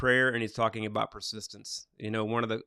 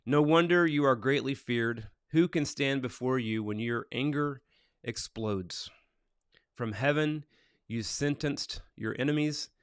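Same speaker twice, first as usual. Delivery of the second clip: measured, deliberate psalm reading; scripture reading. Acted. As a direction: read the psalm out to listeners, phrase by phrase. Reads the day's psalm aloud.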